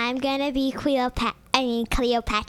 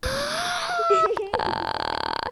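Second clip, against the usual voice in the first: long high gasp; 13 semitones higher than usual. Pretend. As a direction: suck in a long squeaky breath. Long breath before rhyme.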